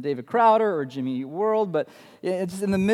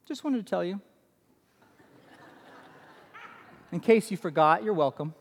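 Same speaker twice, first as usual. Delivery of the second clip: daughter's punchline; 3 dB quieter than usual. Retold or imitated. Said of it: "she finishes with this line".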